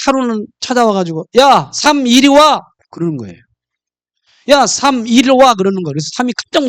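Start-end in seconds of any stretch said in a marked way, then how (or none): 1.4-2.6 slow, higher, louder, a cocky summons; bossy call. Acted. 2.5 bossing 3. 4.5-5.5 bossy call. Acted. Repeated summons.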